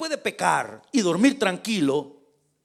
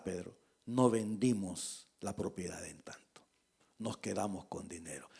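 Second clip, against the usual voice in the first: unvoiced whisper, lower; whispered confession; 9 semitones lower, 11 dB quieter than usual. Safira confesses the sale to Pedro in a whisper. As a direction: breathe the secret out.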